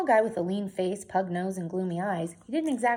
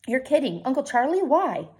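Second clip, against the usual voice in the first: surprised; 5 semitones higher, 5 dB louder than usual. Acted. Boy reacts to shocking news.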